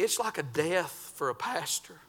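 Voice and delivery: a soft, breathless whisper of grief; whispered confession. Real, not acted. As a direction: let it fall to a whisper. Grieving pastor confides.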